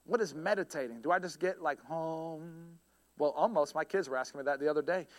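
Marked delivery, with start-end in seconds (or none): 1.6-2.8 soft, drawn-out "om" hum; mock meditation chant. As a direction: imitate a meditator humming om, quietly.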